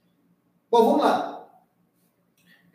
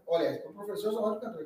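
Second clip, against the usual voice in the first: mock boast; 9 dB quieter, faster than usual. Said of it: "né?".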